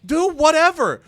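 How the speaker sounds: mock pissed off. Champion fed up with clueless partner asking what move, mock exasperation. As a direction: stammer up high into an exasperated outburst. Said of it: "Chad Gable got pissed".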